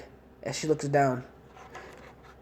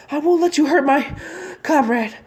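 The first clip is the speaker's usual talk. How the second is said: put-on high, loud girl's vow; defiant cry; 11 semitones higher, 4 dB louder than usual. Sakura guarding Sasuke from the enemy, high defiant cry. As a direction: stand your ground, voice up high. Girl defends fallen teammate.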